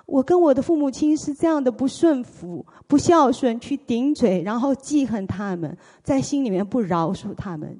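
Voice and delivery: fervent loud repentance, voice straining; loud confession. Retold or imitated. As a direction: cry out your sins to God. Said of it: "我就大声地说".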